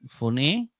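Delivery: foné with the final vowel said as a clear E; Greek pronunciation demo. Shown as a demonstration. Teacher spelling out to students how foné sounds, carefully. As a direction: say foné as fo-NE, ending on an open E. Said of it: "Recuerden que esto se pronuncia E".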